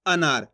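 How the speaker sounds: अनार said low and clear, the first vowel short; teacher models अनार slowly for a beginner; demonstrating anar. Shown as a demonstration. Teacher modelling the word for a beginner, low and clear. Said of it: "इस तरीके से बोलो".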